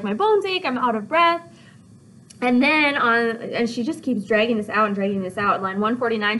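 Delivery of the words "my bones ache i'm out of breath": whiny complaining. Acted. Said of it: "she's like".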